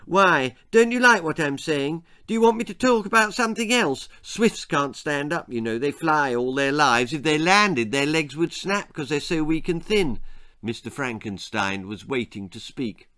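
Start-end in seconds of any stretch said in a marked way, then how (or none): 0.1-10.2 put-on lively, insistent boyish prattle; chattering boy Jack. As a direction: babble on, heedless of the listener.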